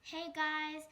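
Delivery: high, loud YouTuber hello; big excited channel intro; First Girl's excited greeting. Acted. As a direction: burst in like a hyped vlogger opening a video. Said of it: "So this is First Girl".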